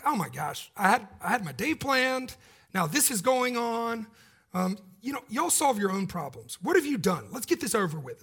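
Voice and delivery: a hint of an annoyed, put-upon governor; lightly voiced grumpy Roman official; grumpy Pilate. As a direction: huff it like a man whose morning plans were ruined. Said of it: "Pilate's grumpy. He's like".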